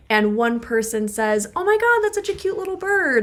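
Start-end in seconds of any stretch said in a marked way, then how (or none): 1.5-3.2 excited gushing. Acted. Partner gushes over bird on walk.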